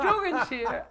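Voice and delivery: high, loud mock call; mother calling out. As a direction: shout it up the stairs like mom. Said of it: "my mother would go".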